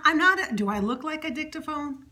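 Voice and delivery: playful, affronted outburst; mock indignation. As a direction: object as if absurdly insulted. Mock complaint at being corrected.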